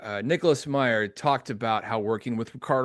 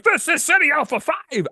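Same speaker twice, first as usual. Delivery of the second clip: much higher, louder, hammed-up Chekhov outburst; Chekhov's big line; 4 dB louder than usual. Host reenacting Chekhov's outcry to Khan, high and loud. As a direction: belt it big and broad like Chekhov. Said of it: "it's so big and it's so broad".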